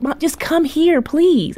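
son pleading. Retold or imitated. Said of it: "He's like".

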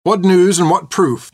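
high, slow, forceful demand. A narrator's reading. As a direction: demand answers from the rider. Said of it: "he demanded".

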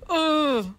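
high, stunned crowd "Oh."; shocked crowd oh. Shown as a demonstration. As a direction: let "Oh." drop out like a shocked room. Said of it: "replicate the noise that the crowd made".

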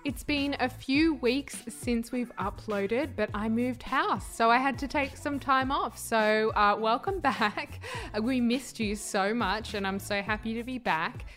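recorded in a bare, echoing office; echoey room. Real, not acted. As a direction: let the room ring around the voice. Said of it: "Apologies for the echoiness of this intro".

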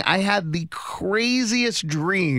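hazy puzzled dream recounting. Real, not acted. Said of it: "This is insane".

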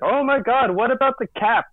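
high-pitched imitation of panicking fan; hammed-up worried outcry; mock panic. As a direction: exclaim in pretend alarm, pitch jumping up. Voicing an imagined panicking fan.

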